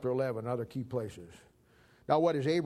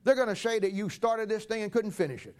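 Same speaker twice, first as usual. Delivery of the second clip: high mocking quote; 6 semitones higher than usual. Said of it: "He says".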